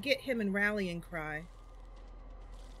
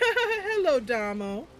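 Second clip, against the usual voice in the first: put-on Scottish accent; 6 semitones higher, 6 dB louder, slower than usual. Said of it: "I'm terrible at Scottish accents".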